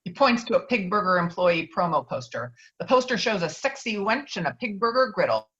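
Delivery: ordinary delivery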